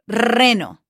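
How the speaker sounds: reno with a long trilled R; Spanish reno, R strongly trilled; rolled R. Shown as a demonstration. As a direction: roll the R at the start of reno. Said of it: "roll your R's".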